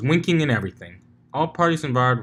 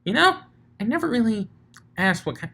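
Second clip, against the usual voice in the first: giggly; 9 semitones higher, faster than usual. Acted. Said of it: "she giggled".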